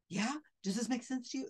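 mock the psychic pressing a crying guest.

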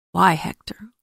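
breathy whisper, pleading; whispered plea. Acted. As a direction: whisper his name in grief. Grieving wife pleads with husband.

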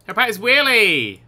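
gleeful call to action; excited cheer. Real, not acted. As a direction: cheer on the stunt. Same words as cheer.

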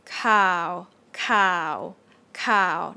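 "cow" starting low and sinking. Shown as a demonstration. Teacher models the Thai low tone, sinking "cow". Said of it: "This is still low tone".

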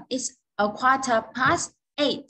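spoken slowly, falling on past; slow time demo. Shown as a demonstration. Teacher repeats the corrected time slowly for students. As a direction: model it slowly for learners.

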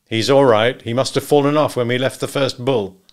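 a firm hint of the hunter; lightly voiced Wilson. Hunter explains the missing gun bearer, matter-of-fact.

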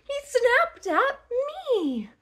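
high, loud build-up; mounting suspense. Shown as a demonstration. Teasing a child in the turtle rhyme, mounting suspense. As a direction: swoop up and hang before the last word.

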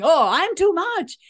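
playfully voicing her own over-the-top self; too much. The listener voicing worry about being too much, mock overexcited. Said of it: "you're thinking".

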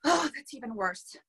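normal talking voice

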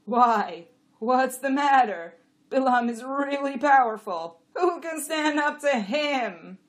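high, loud donkey voice; questioning donkey. A narrator's reading. Jack challenging the jenny's doubts, loud and high. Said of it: "Abbott asked".

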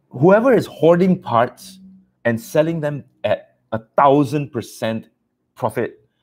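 slow, high, accusing; scolding. Real, not acted. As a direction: call them out slowly. Scolding hoarders.

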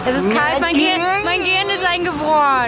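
brain freeze from the cold; talking through a brain freeze. Real, not acted. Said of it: "Brain freeze".

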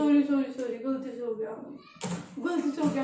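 low, hushed apology; meek apology. Real, not acted. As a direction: shrink into a soft, low-pitched sorry. Apologising after spilling water.

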